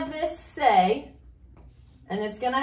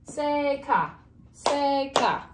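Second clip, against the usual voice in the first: Seka with a long, higher SE; stress on first syllable; 4 semitones higher, much slower than usual. Shown as a demonstration. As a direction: say Seka slowly as SEEE-ka. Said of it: "should be on the E".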